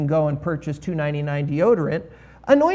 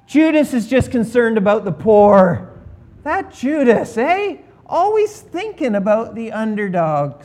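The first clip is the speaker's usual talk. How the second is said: sarcastic; 2 semitones higher, 3 dB louder than usual. Acted. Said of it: "Oh no, maybe we should keep reading".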